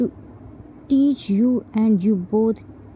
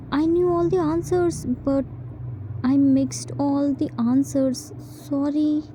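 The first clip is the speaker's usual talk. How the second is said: sheepish excuse; 4 semitones higher than usual. Acted. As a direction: stretch out the excuse, embarrassed. Child excusing bad marks.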